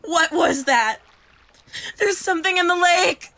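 startled, loud alarm. Acted. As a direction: cry out in alarm. Alarm at something in water.

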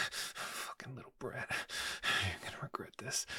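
harsh whisper; whispered threat. Acted. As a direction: hiss it under your breath. Aside to partner while on call.

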